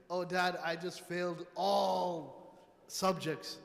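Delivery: slow, put-on kid voice; child voice. A child telling his dad he failed every subject, in a slow put-on voice. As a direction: sound like a sheepish child owning up.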